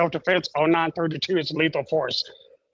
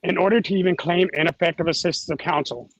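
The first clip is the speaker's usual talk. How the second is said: choppy, cutting-out call audio; radio breaking up. Real, not acted. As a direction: voice dropping out over a bad line. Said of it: "Breaking up again".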